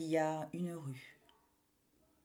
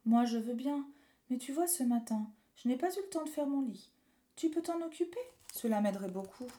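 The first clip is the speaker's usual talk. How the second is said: river voice; 4 semitones higher than usual. Acted. River asks a favour.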